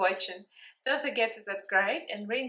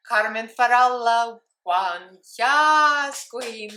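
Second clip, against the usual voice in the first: excited announcement; 2 semitones higher, 8 dB louder, much slower than usual. Real, not acted. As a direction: shout out the winner's name proudly.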